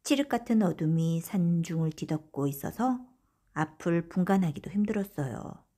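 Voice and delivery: ordinary delivery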